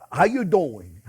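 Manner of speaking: slow, drawn-out New York greeting; playful mock New York accent. Shown as a demonstration. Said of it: "that's my New York accent".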